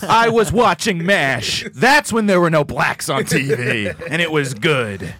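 slow, put-on nostalgic old-timer; slowly and fondly, playing a bigot; mock bigot voice. Mocking Cumia's views.

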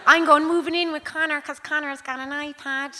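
put-on bratty kid voice. Mum imitating her kid demanding to move out, whiny child voice. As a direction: play the kid storming off to a friend's house. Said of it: "And the kids, I'm going".

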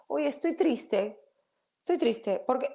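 mildly plaintive self-check; noticing sadness. Retold or imitated. Teacher showing the audience how to ask yourself, mildly plaintive. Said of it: "empezamos a traer conciencia y decir".

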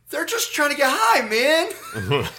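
high, loud laid-back stoner; lazy mock stoner drawl. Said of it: "I was like".

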